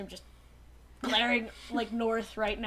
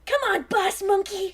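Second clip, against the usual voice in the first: slow, raised plea to the boss; urgent call; 7 semitones higher, 5 dB louder than usual. Acted. Rat Trap murmurs to himself, a mild raised plea. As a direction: call out to him, pressing. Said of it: "is the line".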